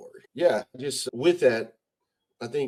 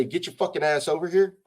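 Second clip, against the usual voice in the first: mock order; 5 semitones higher than usual. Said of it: "But if I say".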